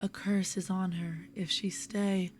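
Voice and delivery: measured, lilting verse with pauses at line ends. Acted. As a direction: read the poem gently, letting refrains fall away. Reads a poem aloud.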